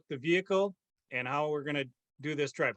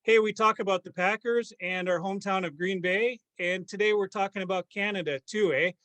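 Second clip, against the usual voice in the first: hammed-up Canadian podcast host; put-on Canadian lilt with tagged-on "eh"; mock Canadian accent; 3 dB louder than usual. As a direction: greet listeners in a playful Canadian accent. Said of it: "keep up this accent. I'm glad that you can".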